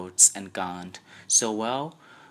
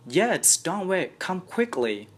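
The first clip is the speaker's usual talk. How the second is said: higher, urgent plea; 11 semitones higher, 5 dB louder than usual. A narrator's reading. Sid urging the aunt to hurry upstairs. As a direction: hurry her up.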